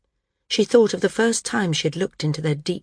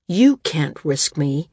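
firm; 3 semitones lower, 4 dB louder, slower than usual. Acted. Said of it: "he said firmly".

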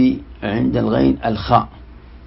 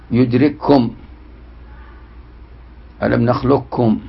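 Quran recitation. Shown as a demonstration. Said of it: "وجب إدغام الأول منهما لغة وقراءة".

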